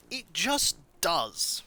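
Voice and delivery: stubborn reply. Retold or imitated. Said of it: "And he goes".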